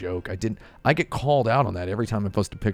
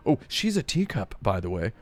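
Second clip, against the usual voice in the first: mock breeder voice. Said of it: "They go".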